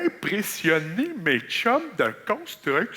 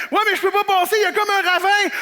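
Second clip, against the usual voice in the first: high, loud reply across a ravine; shouting back; 9 semitones higher, 3 dB louder than usual. Pretend. Survivor shouting back across the ravine. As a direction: call back across the gap. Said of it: "je fais".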